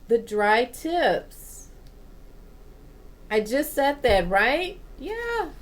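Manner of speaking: emphatic and worked up at being right; excited vindication. Real, not acted. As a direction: insist you said it first, voice up. Book confirms what she just said.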